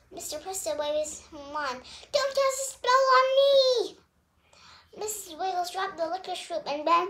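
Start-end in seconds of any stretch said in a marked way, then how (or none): 2.1-4.0 high, loud frightened plea; panicked plea. A narrator's reading. Magician begging Terrell, high panicked plea. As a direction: beg in a panic.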